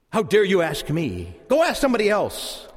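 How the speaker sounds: mock-indignant rebuff, rising on the second sentence; bent out of shape. Person asked to do something, mock-indignant and bent out of shape. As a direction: act put out at being asked. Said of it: "all bent out of shape".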